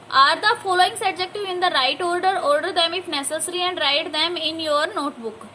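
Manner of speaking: slow, careful read-aloud for a class; slow textbook reading to a class. Shown as a demonstration. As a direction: read each word clearly for pupils. Reads the exercise instruction.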